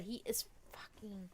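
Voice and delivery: breathy whispered curse. Real, not acted. Complaining about the biting kitten, whispered. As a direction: whisper the swear for effect.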